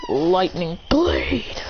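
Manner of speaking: slow, drawn-out move name; attack call. Acted. Fighter pulling out a sword, calling his move. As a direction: stretch out the last word like a battle call.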